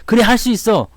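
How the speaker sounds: bright, determined pep talk to yourself; upbeat self-encouragement. Retold or imitated. 힘든 산행 중 스스로에게 힘을 주며 밝게 다짐하듯. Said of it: "그러면서 가는 거하고 완전히 다릅니다".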